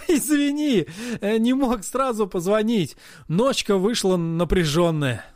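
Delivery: high, laughing sorry; laughing apology. Acted. Hero apologizing to his friend, still laughing.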